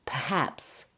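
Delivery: perhaps as "puh-HAPS", first syllable very weak; second-syllable stress. Shown as a demonstration. Teacher asking where stress falls, perhaps stressed late. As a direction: lean on the end of perhaps. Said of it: "Listen to my stress and emphasis".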